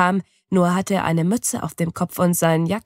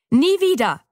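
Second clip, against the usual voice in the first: high, loud indignant cry; indignant call at the friend who took her tortoise; indignant exclamation; 9 semitones higher, 4 dB louder than usual. A narrator's reading. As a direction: burst out in outrage. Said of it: "rufe ich empört aus".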